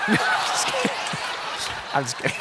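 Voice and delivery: laughing through a joke; real laughter. Real, not acted. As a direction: laugh while taking it back. Joking about showing the picture.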